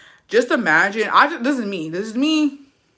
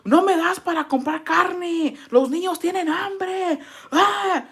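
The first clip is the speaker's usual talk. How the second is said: higher, slow put-on voice, pleading; pleading wife; 13 semitones higher, slower than usual. Wife telling husband the kids are hungry, higher slow plea. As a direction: beg him like a worn-out wife with hungry kids. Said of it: "And yo".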